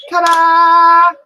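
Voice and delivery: loud, high ta-da; excited reveal. Real, not acted. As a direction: announce the reveal with flair. Grandma reveals the finished picture.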